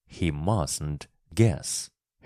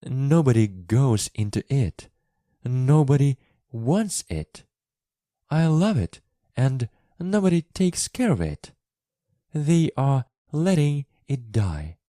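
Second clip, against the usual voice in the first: rising to tears; 8 semitones higher, 4 dB louder than usual. A narrator's reading. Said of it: "started crying".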